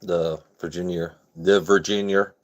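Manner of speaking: Virginia accent, "Virginia" ending like "yer"; light regional Virginia twang; local Virginia dialect. Shown as a demonstration. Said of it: "that's local dialect".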